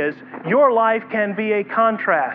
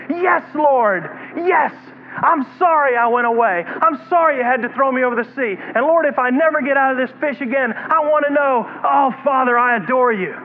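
fervent prayer; 4 semitones higher than usual. Acted. Jonah's fervent repentant prayer.

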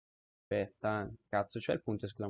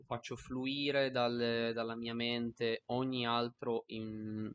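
mock calming; slower than usual. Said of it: "Mi calmo, mi calmo".

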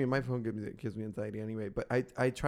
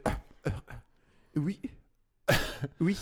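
put-on French accent; 3 semitones higher, faster than usual. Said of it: "this woman said".

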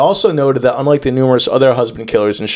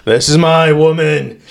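smitten editor. Acted. Editor besotted with the killer, mock swooning. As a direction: play up the editor falling for her, slowing down. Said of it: "the editor was like".

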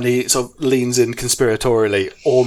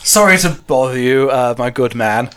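lightly voiced polite toff, stumbling over his apology; apologetic English toff; 3 semitones higher, 4 dB louder than usual. Toff apologising to a surly farmer for bothering him, politely flustered. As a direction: play a well-mannered gent excusing himself.

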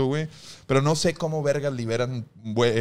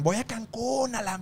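higher, excited tourist voice, slowing at the end; mock tourist; 7 semitones higher, 5 dB quieter, slower than usual. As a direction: gush like a vacationer bragging. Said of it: "Todos los que pasan por ahí van".

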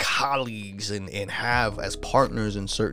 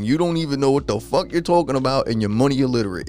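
mock scornful banker; 2 semitones higher than usual. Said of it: "They gonna be like".

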